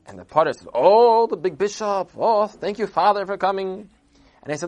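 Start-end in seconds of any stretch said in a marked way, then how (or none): 0.7-3.9 high, loud gushing greeting; effusive welcome. Acted. Noble gushing welcome to the bishop, high and loud. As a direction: gush over the important guest.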